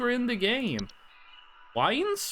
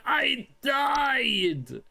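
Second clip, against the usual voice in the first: a mock yell of the caller's complaint; mock caller wail; 5 semitones higher than usual. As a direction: whine it like the annoyed caller. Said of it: "call us up again and say".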